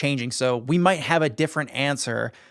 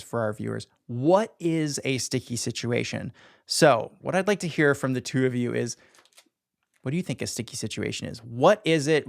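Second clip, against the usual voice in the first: referee voice. Pretend. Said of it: "I'm speaking in my referee voice".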